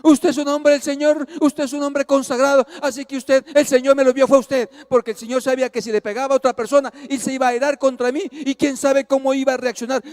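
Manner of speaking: high, insistent voice of grateful driver; effusive pleading. Retold or imitated. Hermano suplica y halaga al pastor. (súplica efusiva, voz aguda)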